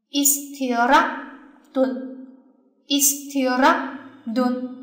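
istirahatun very slow, stress on ra. Shown as a demonstration. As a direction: spell out istirahatun slowly, leaning on ra. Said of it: "所以读起来的时候是这样子的".

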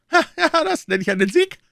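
very high, loud, delighted king; beaming royal exclamation. A narrator's reading. King hearing of his musketeers' victory, beaming high exclamation. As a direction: cry out in triumph in a high head voice. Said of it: "rief der König ganz strahlend".

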